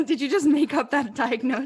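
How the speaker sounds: teasing, laughing through the words; amused laughing tease; laughing question. Real, not acted. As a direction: laugh it out in disbelief.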